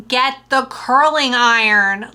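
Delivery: put-on slow, mild English lady's accent; drawn out like the lady from England; a light mock English accent. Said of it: "like that".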